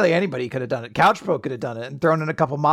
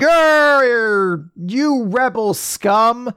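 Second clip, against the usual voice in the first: growled, slow mock villain sneer; 4 semitones higher, much slower than usual. Imperial leader sneering at rebels, mock villain growl. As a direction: ham up a cartoon imperial baddie. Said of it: "the Imperial leader is just like".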